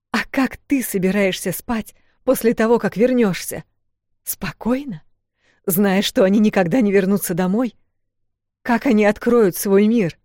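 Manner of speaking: passionate rebuke. Acted. Вэл shaming her sister, heated rebuke. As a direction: drive the point home.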